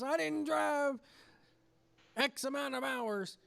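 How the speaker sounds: full promo mode. Retold or imitated. Old man grabs mic at Fan Fest, mock promo shout. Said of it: "gone into full promo mode".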